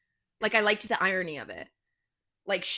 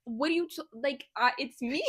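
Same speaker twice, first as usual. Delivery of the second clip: put-on Boston accent; 3 semitones higher, 3 dB quieter than usual. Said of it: "He doesn't have a Boston accent".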